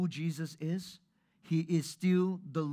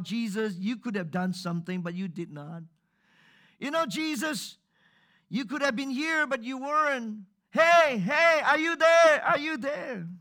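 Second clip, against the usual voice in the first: higher, louder desperate calling out; frustrated crying out; 6 semitones higher, 7 dB louder than usual. Retold or imitated. Preacher imitating frustrated people crying out to Jesus, rising to a shout. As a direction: shout up at heaven, fed up. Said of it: "Some people cried out that way".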